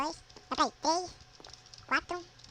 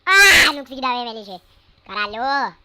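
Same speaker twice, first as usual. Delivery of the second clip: loud, exasperated cry at the missed move; frustrated yell; 19 dB louder than usual. Real, not acted. Gamer misses the MLG water drop, yells in frustration. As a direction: blurt it out, furious with yourself.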